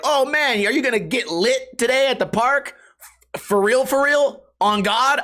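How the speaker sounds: put-on high, hyped kid voice; mock slangy kid. Imagined kid at the park, hyped high slang. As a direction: ham up a teen hyping.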